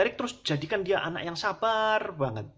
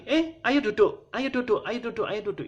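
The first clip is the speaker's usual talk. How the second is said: teacher yelling; 8 semitones higher, 4 dB louder than usual. Retold or imitated. Kindergarten teacher ordering running children to sit, loud call. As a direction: shout over a noisy kindergarten class.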